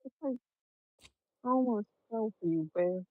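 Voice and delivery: muffled by a pillow; talking with face in pillow. Real, not acted. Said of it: "You are so muffled".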